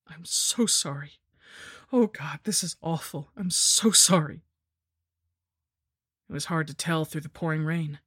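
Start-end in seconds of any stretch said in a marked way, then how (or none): 0.1-4.4 tearful. Acted. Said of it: "I thought he might be crying".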